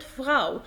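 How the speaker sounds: فراو with a throaty German R. Shown as a demonstration. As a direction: sound the R in فراو before the "au". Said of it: "حرف ال R جاي في النص".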